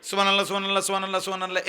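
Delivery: সুবহানাল্লাহ gabbled fast, syllables swallowed; mock the hasty way, rattling it off; rushed machine-like. Shown as a demonstration. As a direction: mechanical rapid-fire dhikr, shown as wrong. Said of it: "এরকম না".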